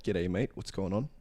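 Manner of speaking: a thick Australian accent on g'day mate; broad Australian greeting. Shown as a demonstration. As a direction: greet them like a true Aussie, in an Australian accent. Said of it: "the most Australian g'day mate".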